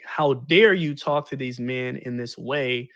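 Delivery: slow, indignant mock rebuke; lightly acted Douglass going off; retold outrage. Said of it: "Frederick Douglass went off".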